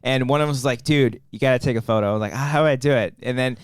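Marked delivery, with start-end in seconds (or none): 0.8-2.1 much lower dude impression. Retelling one hiker urging his friend, low dude voice. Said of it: "that's how they talk". 2.3-3.1 low imitation of a clueless dude; lightly mocked low-pitched dude. Retelling the friend's puzzled reply, low dude voice. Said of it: "that's how they talk".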